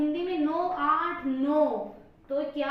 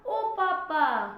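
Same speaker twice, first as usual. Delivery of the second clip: long, loud drawn-out wail of ओ पापा; slapped child's cry; 3 semitones higher, 5 dB louder, much slower than usual. Acted. Kid slapped by mum calls for papa, drawn-out mock wail. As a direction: stretch it out like a child crying for dad. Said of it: "तो मुंह से निकला".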